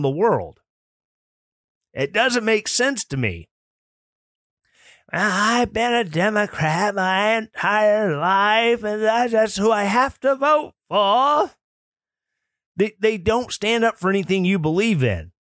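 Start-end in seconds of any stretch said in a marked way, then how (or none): 5.1-11.5 put-on slow, higher elderly woman voice; old lady voice. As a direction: play a stubborn old lady neighbor. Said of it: "My old lady voice is on point tonight".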